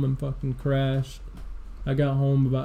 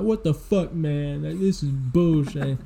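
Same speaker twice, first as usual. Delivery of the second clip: retold indignant protest; 2 semitones higher than usual. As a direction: imitate an exasperated defendant, pitched up. Retold prisoner protesting his trial.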